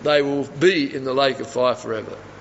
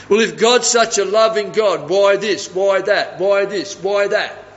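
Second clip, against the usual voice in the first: higher, insistent mock questioning; mock challenge, pitched up; imitating challenging atheist; 4 semitones higher, 3 dB louder than usual. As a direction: fire off questions as a badgering sceptic would.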